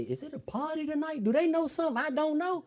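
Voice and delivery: high wary questioning; wary high disbelief; suspicious surprise. Retold or imitated.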